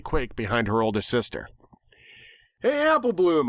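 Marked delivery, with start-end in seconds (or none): 2.6-3.5 higher called-out name; calling out. A narrator's reading. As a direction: call across to the filly. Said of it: "I called out".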